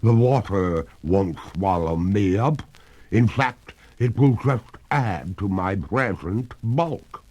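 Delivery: lightly otherworldly lady ghost, smug; a hint of a ghostly lady, teasing; calm phantom voice with a touch of spookiness. A narrator's reading. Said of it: "returned the ghost".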